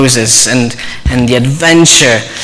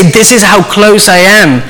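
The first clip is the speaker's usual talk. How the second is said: God's tender whisper; 3 semitones higher than usual. Acted. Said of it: "what was God whispering to Elijah".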